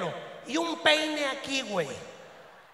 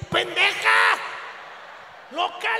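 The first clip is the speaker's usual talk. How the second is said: startled shout, louder and higher; retold yell; 5 semitones higher, 5 dB louder, slower than usual. Teen yelling at an older girl, startled and loud. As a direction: yell at her in a panic. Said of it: "le dije".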